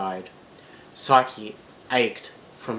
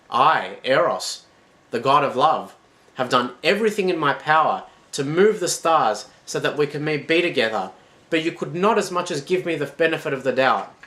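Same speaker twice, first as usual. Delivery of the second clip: grand wounded god; 5 semitones higher, 5 dB louder than usual. Acted. God of love proclaims himself.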